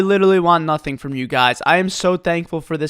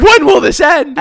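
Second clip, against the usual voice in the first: higher and louder exasperated cry; mock exasperation; 7 semitones higher, 6 dB louder, slower than usual. Worker fed up with the customer, mock exasperated. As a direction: plead to the heavens.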